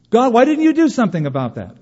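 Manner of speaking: hammed-up parent crying out to heaven; mock anguished cry.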